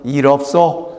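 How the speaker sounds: low North Korean reassurance; North Korean dialect. Shown as a demonstration. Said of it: "이북 말로".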